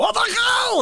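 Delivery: put-on Russian accent, very high screaming and yelling. Showing a Russian version of the father screaming: Russian Jerry Stiller screaming. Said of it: "my version of Jerry St-, Stiller".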